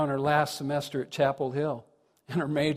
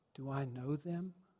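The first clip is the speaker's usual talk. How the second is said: put-on small, worried voice, much quieter; 14 dB quieter than usual. Speaker retelling what she would ask when a stranger approached, imitating a small, concerned voice. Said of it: "ask in a small, concerned voice".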